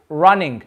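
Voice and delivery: "running" with the lips curled in; English R. Shown as a demonstration. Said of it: "my lips tend to curl in a bit".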